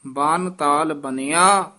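"ਬਨ ਤਾਲ ਬਣਿਆ" closed with a rest; measured "ਬਨ ਤਾਲ ਬਣਿਆ" to a phrase end; full pause after. Shown as a demonstration. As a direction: lengthen "ਬਣਿਆ", then stop. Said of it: "ਇੱਥੇ ਵਿਸਰਾਮ".

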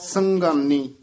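ਸੰਗਾਨੀ with the nasal sounded in ਸੰ; nasalised first syllable. Shown as a demonstration. Teacher corrects the pupil, clear nasal in ਸੰਗਾਨੀ. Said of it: "ਟਿੱਪੀ ਲੱਗੀ ਹੋਈ ਹੈ".

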